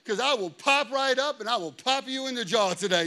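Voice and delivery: half-shouted retold threat, daring. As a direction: bark it like a street challenge. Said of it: "I'm like".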